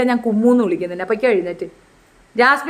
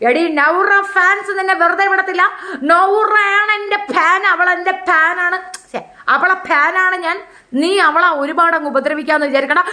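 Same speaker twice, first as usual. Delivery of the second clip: raised-pitch mock scolding; mock indignant warning; 5 semitones higher than usual. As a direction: declare fandom with exaggerated force. Acted scolding of fans' target.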